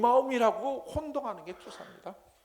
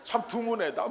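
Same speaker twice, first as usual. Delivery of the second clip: mock praise; 2 semitones higher than usual. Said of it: "이걸 칭찬하는 게 아니고".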